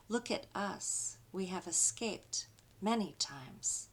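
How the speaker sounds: rhythmic spoken-word poem, each "look at" line punched; a spoken-word poem, building with a steady beat; poem recital. Acted. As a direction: chant it like a protest poem. Recites a call-and-response poem.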